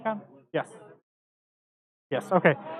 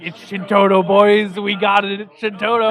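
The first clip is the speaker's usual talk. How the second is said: excited; 6 dB louder, slower than usual. Retold or imitated. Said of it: "I, I was like".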